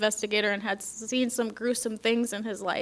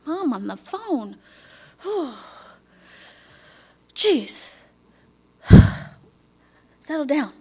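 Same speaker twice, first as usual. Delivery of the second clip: eye-rolling, sighing exasperation, settle down much louder; exasperated aside; 3 semitones higher, 5 dB louder than usual. Retold or imitated. To a store clerk about her mother on the phone, exasperated. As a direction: huff about mom to a stranger. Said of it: "rolling my eyes at the guy going".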